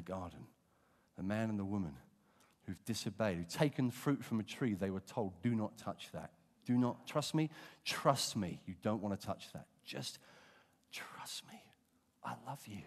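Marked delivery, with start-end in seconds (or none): 5.4-12.8 tender warning. Acted. God's loving warning voiced.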